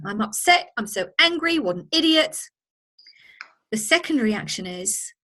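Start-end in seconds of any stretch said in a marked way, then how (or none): 0.0-2.4 a lightly voiced angry outburst, pitched higher; half-acted annoyance at the rude colleague; mock angry rant. Presenter reacts to the rude chatter, mock angry. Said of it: "So that's the first reaction".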